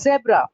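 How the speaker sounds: "zebra" with a buzzing Z; "zebra" with Z, falling; correct pronunciation. Shown as a demonstration. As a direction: say "zebra" as ZEB-ra, not JEB-ra. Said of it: "Z, Z sound".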